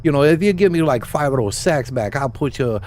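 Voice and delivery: lightly voiced goblin hustler, a bit brighter and pushier. Goblin quest giver asking the player for help, lightly voiced hustler. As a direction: read the quest like a small-time goblin fixer. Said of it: "Racially problematic goblin stereotype".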